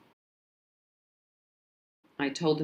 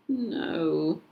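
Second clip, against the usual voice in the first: groaned. Acted. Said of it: "my mum groaned".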